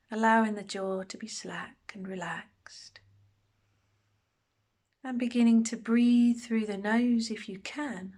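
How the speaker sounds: unhurried meditation guide, long pauses between phrases; guided meditation. Acted. Meditation teacher settling listeners into a body scan, calm guided delivery. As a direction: guide them gently through a body scan, pausing often.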